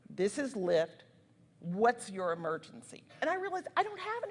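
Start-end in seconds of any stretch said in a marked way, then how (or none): 0.1-3.0 imitated Virginia drawl, pitched low; deep Southern drawl. Lyft emergency operator answering a caller, deep Southern drawl. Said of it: "like, that really deep dwa-, drawl".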